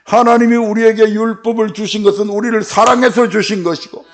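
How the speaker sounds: usual speaking voice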